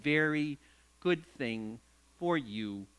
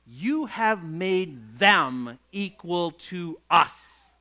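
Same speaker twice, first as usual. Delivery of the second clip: indignant; 4 dB louder, much slower than usual. Acted. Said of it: "They dare to say".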